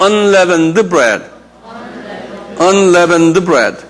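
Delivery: "unleavened bread" slow and evenly sounded out; drawn-out syllables in "unleavened bread"; pronunciation demo. Shown as a demonstration. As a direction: model "unleavened bread" slowly for repeating. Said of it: "한번 발음해봐".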